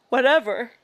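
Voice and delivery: words stretched by a yawn. Real, not acted. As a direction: say it mid-yawn. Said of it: "Excuse me as I yawn again".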